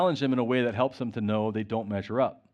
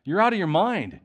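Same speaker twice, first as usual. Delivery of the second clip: raised, higher and louder accusation; 4 semitones higher, 3 dB louder than usual. Acted. Festus shouting at Paul in court, loud and higher. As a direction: call Paul mad across the court. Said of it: "Festus said in a loud voice".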